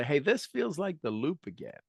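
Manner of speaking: gently smiling self-talk. Shown as a demonstration. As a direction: let the smile be heard in the voice. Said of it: "Put a smile on your face and say".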